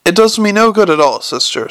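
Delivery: old lady snapping back, lightly acted; snapped. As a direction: brush her off sharply, lightly voiced. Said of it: "snapped the old woman".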